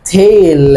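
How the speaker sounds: تيل with the ay sound, not طول; reading tail aloud. Shown as a demonstration. Teacher correcting طول to تيل. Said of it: "هي اسمها".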